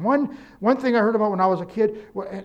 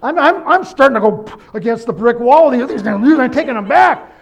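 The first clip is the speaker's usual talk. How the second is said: mock frustrated; 5 semitones higher, 12 dB louder than usual. Retelling his frustration with the lights.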